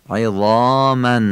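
عظاما slow, tongue-tip heavy za and dark long "aa". Shown as a demonstration. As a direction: make the za and alef of عظاما thick, stretched out. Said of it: "ولی درشت". (عظاما با ظای درشت و الفِ مثل آ)

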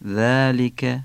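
ذلک begun with a voiced "th"; tongue tip forward to start ذلک; tongue-tip dhal. Shown as a demonstration. Teacher demonstrating ذلک to learners, tongue-tip dhal. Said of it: "نوک زبانی".

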